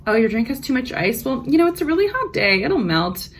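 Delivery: sassy. Retold or imitated. Server sassing the complaining customer, sweetly mocking. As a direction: serve it with polite sass. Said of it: "give them a little sass".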